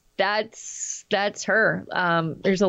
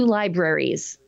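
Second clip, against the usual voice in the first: sniffing; 5 semitones lower, slower than usual. Real, not acted. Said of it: "I'm sniffing in your ear".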